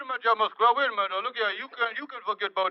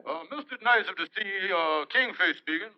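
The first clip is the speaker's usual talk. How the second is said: Kingfish voice. Acted. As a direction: answer the phone as the Kingfish. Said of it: "when I'm playing the Kingfish".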